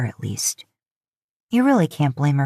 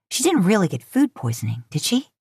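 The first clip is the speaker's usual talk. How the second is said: pointed; 3 semitones higher than usual. Acted. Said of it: "she asks pointedly".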